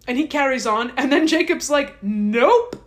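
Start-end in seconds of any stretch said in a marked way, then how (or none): 2.0-2.8 louder mock taunt. Jacob's mocking reversal.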